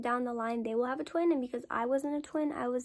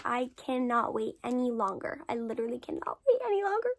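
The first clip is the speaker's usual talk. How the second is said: urgent plea. Retold or imitated. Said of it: "I said to my mom".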